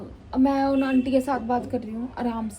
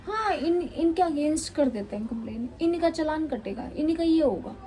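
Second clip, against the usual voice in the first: higher pitched mocking imitation of angry neighbors; mock neighbors shouting; 4 semitones higher than usual. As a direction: parody the neighbors' threats, pitched up. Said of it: "ज़ोर से बोल रहे". (पड़ोसियों की चिल्लाहट की हल्की नकल, ऊँची आवाज़ में)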